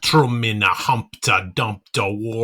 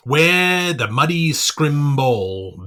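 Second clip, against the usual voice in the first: ordinary delivery, nothing marked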